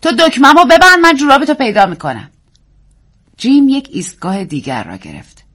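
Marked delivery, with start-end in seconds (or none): 0.0-2.3 higher, louder wife's voice; wife offering a trade, in a higher voice; woman's voice. A narrator's reading. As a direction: bargain lightly with the husband. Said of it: "زن گفت".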